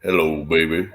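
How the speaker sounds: low, smooth late-night voice; deep sultry voice. Pretend. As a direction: purr it like a radio host. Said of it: "deep morning voice".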